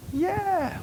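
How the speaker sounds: high, drawn-out celebratory yeah; mock cheering. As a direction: whoop it up after a high five. Acted cheer after a twirl.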